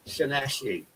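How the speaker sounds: Llanelli with a sh sound for the L's; double L as sh. Shown as a demonstration. Explaining a Welsh place name, Llanelli with sh sounds. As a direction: say Llanelli slowly, L's pronounced sh. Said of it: "two L's is a sh sound".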